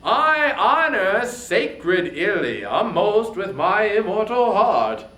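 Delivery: loud, commanding king of the gods; Zeus's booming voice. Acted. King of the gods booming his claim to Troy. Zeus speaks to the queen.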